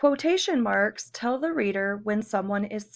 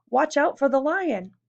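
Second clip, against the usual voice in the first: a touch of fright, a little louder; mild alarmed warning; 3 semitones higher, 4 dB louder than usual. Shown as a demonstration. Teacher showing students how an exclamation sounds, mildly alarmed. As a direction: warn them of the lion, lightly alarmed. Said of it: "You would be afraid if there was a lion".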